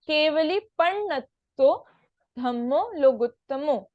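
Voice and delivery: careful phrase-by-phrase recitation, ending लोगुत्तमो on an "o"; teacher's deliberate recitation, पण्णत्तो with double ण; model recitation. Shown as a demonstration. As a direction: sound each syllable, closing with लोगुत्तमो, not "ma". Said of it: "ध्यान रहे लोगुत्तमो है यहाँ पे".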